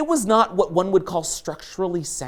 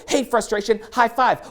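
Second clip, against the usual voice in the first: cheery greeting; 5 semitones higher than usual. Retold or imitated. Acted greeting to frustration.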